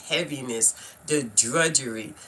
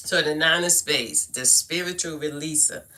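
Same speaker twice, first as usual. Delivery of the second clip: reading aloud; 2 semitones lower than usual. Real, not acted. Reads aloud from own new book.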